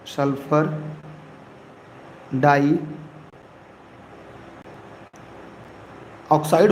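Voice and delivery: very slow, stretched dioxide; hesitant, dragged-out naming of the answer; drawn-out answer. Real, not acted. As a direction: let dioxide stretch out as if thinking. Teacher drawing out the answer.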